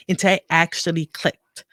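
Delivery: ordinary talk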